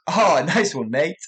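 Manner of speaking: laughing through nice one; smiling sarcasm. Shown as a demonstration. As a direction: grin and chuckle as you tease. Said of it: "made sure to smile a bit more".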